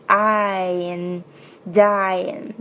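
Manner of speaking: "dying" with a full "eye" glide; vowel I demo. Shown as a demonstration. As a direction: open out the "I" in "dying". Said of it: "这个元音I要注意". (“dying”元音I发足)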